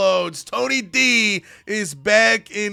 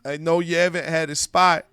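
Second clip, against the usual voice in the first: heartbroken, hesitant; 2 semitones lower than usual. Retold or imitated. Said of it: "Brooks is so heartbroken. He's hesitant".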